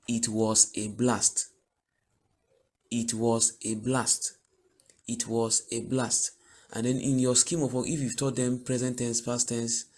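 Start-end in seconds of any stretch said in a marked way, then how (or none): 0.1-6.3 slow model sentence. Shown as a demonstration. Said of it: "teacher models sentence slowly".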